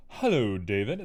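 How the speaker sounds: flat robotic greeting, like a computer. Shown as a demonstration. Streamer greeting follower David in a robotic AI voice. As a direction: say it like a machine. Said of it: "That sounded like an A I was talking to you".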